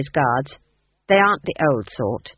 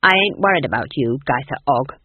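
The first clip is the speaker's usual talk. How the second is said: sharp, curt, getting faster; snapped; 3 semitones lower, 4 dB louder than usual. Acted. Granny snapping at Nanny Ogg, curt and irritated. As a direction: bite off the words, irritated. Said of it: "snapped Granny".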